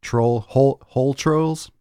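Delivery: playful rhyming chant; silly singsong. Real, not acted.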